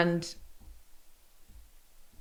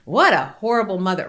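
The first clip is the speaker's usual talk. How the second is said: loud mocking jab; inner critic voice; 6 dB louder than usual. Mother's inner critic repeating the insult. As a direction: spit it out like a cruel inner voice. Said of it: "were screaming at me".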